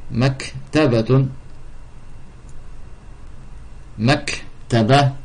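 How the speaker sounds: Maktabatun then Maktaba drawn out slowly, each syllable clear; slow, careful dictation pace; slow teaching. Shown as a demonstration. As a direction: spell it out slowly: Mak-ta-ba.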